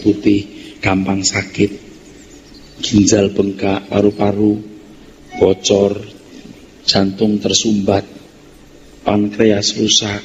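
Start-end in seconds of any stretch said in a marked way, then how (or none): none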